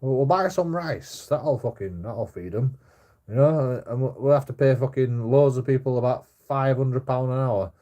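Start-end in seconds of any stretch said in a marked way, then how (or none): 0.0-3.8 high, slow put-on caller voice; mock a foreign phone fundraiser, drawn out; foreign charity caller voice. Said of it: "people on phones going".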